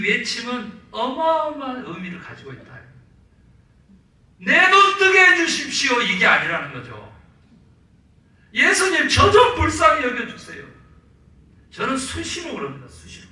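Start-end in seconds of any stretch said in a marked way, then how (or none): 4.4-6.0 loud, much higher pleading shout; desperate cry. Acted. Blind men's cry acted out. 8.5-10.6 loud, much higher desperate plea; pleading cry. Acted. Blind men's cry acted out.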